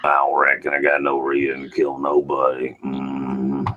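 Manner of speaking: lightly voiced monotone drawling country man; a hint of the film character, grunt after it; Sling Blade character. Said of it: "Sling Blade drive-through thing".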